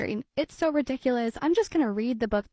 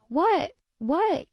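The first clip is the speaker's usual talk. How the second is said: yelling; 5 semitones higher than usual. Acted. Kitty yelling at Unicorn who whispers, playful mock yell. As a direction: shout back, playfully, not hearing. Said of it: "yells Kitty".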